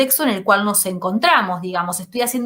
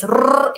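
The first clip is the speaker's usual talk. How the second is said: rolled r noise; 2 semitones higher than usual. Shown as a demonstration. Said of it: "estoy emitiendo un sonido".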